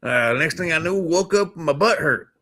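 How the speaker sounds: mock redneck telling his abduction story; redneck alien witness. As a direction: spin the alien abduction yarn as a yokel. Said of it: "that redneck Ed over there who, who saw the aliens".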